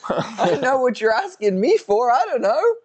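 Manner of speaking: high, put-on English accent, light touch; fake English accent. Answering chat about fights in a put-on English accent. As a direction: play it posh English, half joking. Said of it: "the best fake accent I've ever heard".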